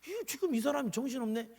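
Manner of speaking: hammed-up irritated rant at a patient; mock angry doctor. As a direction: scold the patient like a rude doctor. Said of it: "이렇게 얘기하더냐 이거요".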